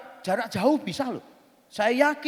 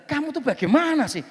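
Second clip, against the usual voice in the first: raised pitch, building to loud exasperation; incredulous scolding; 2 semitones higher, 8 dB louder than usual. Retold or imitated. Speaker arguing with friend about the oiled windows, incredulous scolding. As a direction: argue it out, louder and louder, in mock disbelief.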